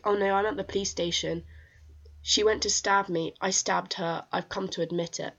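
imitating a blunt, unbothered caller; matter-of-fact. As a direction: state each fact as routine business. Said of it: "being so matter of fact about it".

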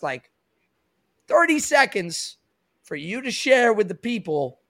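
lightly put-on Italian mobster accent. Host asking guest to share about his sister in a light Italian accent. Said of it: "Why am I doing the Italian accent again?".

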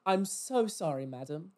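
lightly posh, insincerely polite; really posh. Retold or imitated. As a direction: put on a posh shop-assistant voice. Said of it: "I went really posh".

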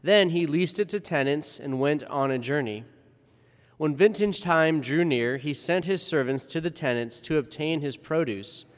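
formal liturgical reading voice; Gospel reading. Acted. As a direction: proclaim the Gospel solemnly.

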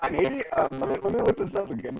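glitchy robotic connection. Real, not acted. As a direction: sound like a broken robot call. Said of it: "That is real robotic".

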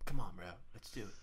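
coaxing mates in an imitated Australian accent. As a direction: do two Australian friends egging Mike on. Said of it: "It sounded just like both of them".

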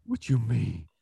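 toned-down celebrity impression, slightly high; lightly voiced baffled comedian; Tracy Morgan. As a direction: echo the protest at talking volume. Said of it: "Tracy, you're off book again".

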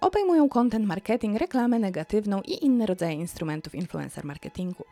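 measured recital of an academic text; formal reading aloud. Acted. Vlogger reading a research paper to viewers, formal recital. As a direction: read it out as a research excerpt.

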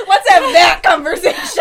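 laughing and squealing, slowed. Real, not acted. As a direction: talk through helpless laughter. Laughing at awkward remark.

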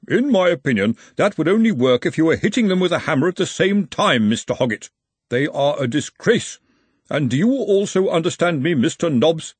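lightly voiced official with crisp emphasis; stern referee. A narrator's reading. Referee scolding Hoggett and Nobbs over their players, stern. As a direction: tell off both captains, naming each.

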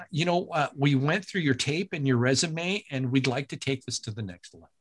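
a lightly voiced, slightly slowed producer; Roger Dobkowitz impression. Producer calling the announcer with news, light impression. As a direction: ease into a gentle hint of the producer. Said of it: "when I'm doing him".

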